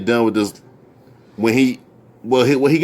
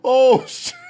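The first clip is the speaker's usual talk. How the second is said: high words squeezed through laughter; imitated laughing fit; 13 semitones higher, much slower than usual. Rapper cracking up at a corny joke, helpless laughing. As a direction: mimic him cracking up, pitch way up. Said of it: "He kept laughing like".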